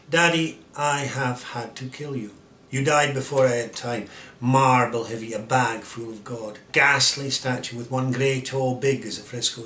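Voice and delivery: measured, weighted poetry reading; poem recitation. Acted. Reading Sylvia Plath's Daddy aloud, intense poetry recitation. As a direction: lean into the stressed words, drawing some out.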